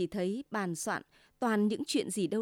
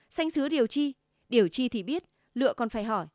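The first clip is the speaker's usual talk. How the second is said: louder, sharp comeback; bristling anger; 3 semitones higher, 5 dB louder, faster than usual. Acted. Husband bristling angrily back at his wife. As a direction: bristle at the wife's jab. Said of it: "Anh Tư sửng sộ".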